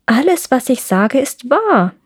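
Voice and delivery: lightly voiced crow; a hint of crow insisting; raspy cawing crow. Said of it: "sagte die Krähe".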